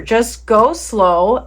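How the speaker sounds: slow, elongated coaching; drawn-out slow. Shown as a demonstration. Teacher telling discouraged learners to take it slow, drawn-out. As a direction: stretch out the words.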